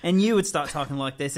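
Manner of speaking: light mock British accent with a laugh; put-on British accent. Shown as a demonstration. Showing friends how an accent change spreads, mock British accent. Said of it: "started talking like this all the time".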